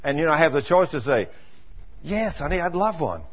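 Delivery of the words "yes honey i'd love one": softer, tender husband's answer; gentle reply. Retold or imitated. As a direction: say it kindly to your wife. Husband answers his wife kindly.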